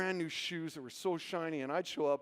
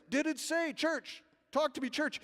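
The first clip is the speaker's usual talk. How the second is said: high-pitched preacher prompting a reply; imitated preacher; 8 semitones higher than usual. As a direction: coax the congregation to answer. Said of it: "And then he said this".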